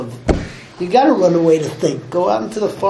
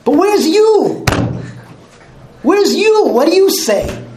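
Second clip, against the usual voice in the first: impassioned preaching; 9 semitones higher than usual. Real, not acted. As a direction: hammer the question home with passion. Preacher builds to impassioned challenge.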